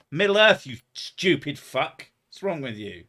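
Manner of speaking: hammed-up angry retort to a chat question; mock outrage. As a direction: scold the viewer with fake fury. Mock snapping at a commenter.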